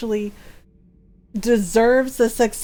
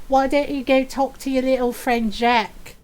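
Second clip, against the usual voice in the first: jealous Miranda. Retold or imitated. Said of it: "she's like".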